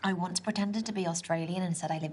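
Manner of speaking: bad Aussie accent; lightly put-on Australian accent; terrible Australian accent. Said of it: "That's my terrible Australian accent".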